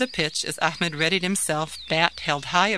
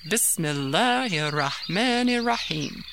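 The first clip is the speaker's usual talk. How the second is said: slow, measured recitation; reciting; slower than usual. Acted. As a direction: recite it slowly and reverently. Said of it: "began reciting".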